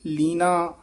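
ਲੀਨਾ with a light, undoubled n; soft pronunciation. Shown as a demonstration. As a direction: say ਲੀਨਾ loosely, long ee and single n. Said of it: "ਪੋਲਾ ਹੀ ਉਚਾਰਨ ਕਰਨਾ".

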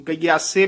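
ਗਯਾਸੇ run together as one quick word; no break inside ਗਯਾਸੇ; joined ਗਯਾਸੇ. Shown as a demonstration. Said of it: "ਇਕੱਠਾ ਹੀ ਬੋਲਣਾ ਹੈ".

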